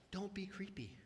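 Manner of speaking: hushed whisper for a joke; whispered aside. Real, not acted. Pastor advising the congregation, in a joking whisper. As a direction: whisper it like a secret.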